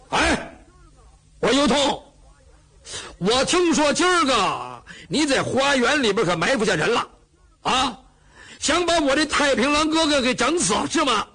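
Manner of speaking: accusing. Acted. Cheng accuses You of ambush.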